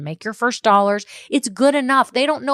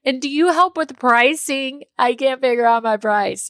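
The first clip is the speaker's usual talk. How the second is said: imitating a client; 5 semitones higher than usual. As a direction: act out a worried client asking for help. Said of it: "they're like".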